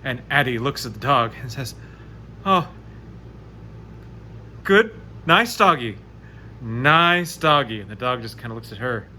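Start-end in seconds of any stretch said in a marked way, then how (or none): 2.4-7.8 slow, coaxing nice-doggy. Acted. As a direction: soothe a wary dog, slowly. Addie calms the hostile dog.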